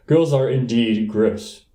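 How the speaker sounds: said slowly and gravely; slow solemn agreement. Acted. A candidate solemnly agreeing with a schoolboy, slowly. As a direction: pronounce it like a solemn verdict.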